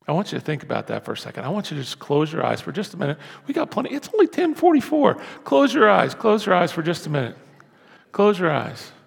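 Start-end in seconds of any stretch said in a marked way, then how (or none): none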